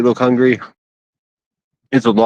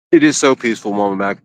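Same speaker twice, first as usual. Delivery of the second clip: chewing while talking; talking through a mouthful; mouth full. Real, not acted. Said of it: "Sorry for the chewing".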